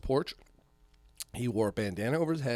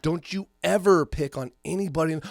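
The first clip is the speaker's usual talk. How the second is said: menacing threat; 4 semitones higher, 6 dB louder than usual. Retold or imitated. Threatening bullies he caught.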